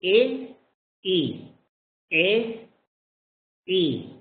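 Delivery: e repeated, pitch jumping; repeated short e drill. Shown as a demonstration. Teacher drills the short e for the class. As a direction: drill the e sound again and again. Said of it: "This is the e".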